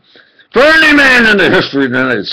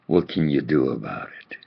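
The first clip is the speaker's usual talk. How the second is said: mocking taunt; 13 semitones lower, 13 dB quieter than usual. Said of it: "and say".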